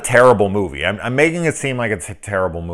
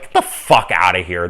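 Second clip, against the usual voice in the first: disgusted outburst; 4 dB louder than usual. Retold or imitated. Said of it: "out loud".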